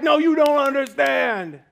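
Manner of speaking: loud, high, slow insistence; emphatic. Retold or imitated. DJ insisting to the pastor, loud slow emphatic. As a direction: make him see how big this is. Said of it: "And he was like".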